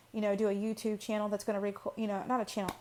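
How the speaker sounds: tripping over the words; stuttering. Real, not acted. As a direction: stumble and restart mid-phrase. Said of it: "see, I'm stuttering over my words".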